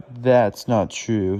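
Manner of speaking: put-on child arguing back. Flora contradicting her brother, loud and slow. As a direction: insist like a cross sister. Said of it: "The two children start to fight".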